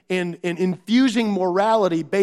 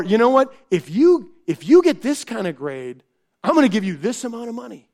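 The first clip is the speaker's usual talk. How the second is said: mock-bright, louder bribe, rushing the end; bribing parent; 3 semitones higher, 4 dB louder than usual. Parent offering the child money for a grade, mock bright. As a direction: pitch the deal like a salesman.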